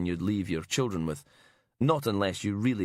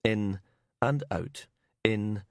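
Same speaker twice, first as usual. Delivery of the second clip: slow breathing; slower than usual. Acted. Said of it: "tried to breathe slowly".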